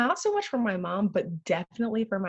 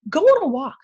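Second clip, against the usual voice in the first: louder, slowed insistent commands; firm orders; 4 dB louder than usual. Retold or imitated. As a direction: lay down the law, hammering each order. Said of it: "I'm like".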